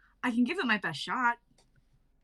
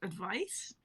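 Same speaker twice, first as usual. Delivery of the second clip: whisper; 4 semitones lower, 7 dB quieter than usual. Acted. Whispered puzzled question.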